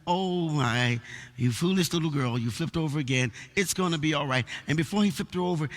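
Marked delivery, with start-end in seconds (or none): 0.1-4.4 tender, lightly chiding shepherd's talk; gentle reassurance. Retold or imitated. Shepherd talking to his fallen sheep, gentle. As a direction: soothe with fond, easy words. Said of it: "he would talk gently to her".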